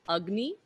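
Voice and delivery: Agni with the A as a short "uh". Shown as a demonstration. Teacher giving students the Sanskrit for fire, short uh-like A. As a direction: say Agni starting with an uh sound. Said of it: "that's a, the short A".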